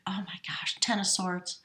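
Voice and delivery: breathless hush at the card; awed whisper. Real, not acted. Reader to viewers at a grim card, whispered in awe.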